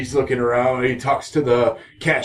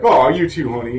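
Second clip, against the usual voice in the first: mock sweet girl; 3 dB louder than usual. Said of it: "she's like".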